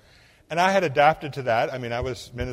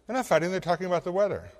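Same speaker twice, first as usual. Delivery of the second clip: laughing; 6 semitones higher, faster than usual. Retold or imitated. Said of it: "And she said".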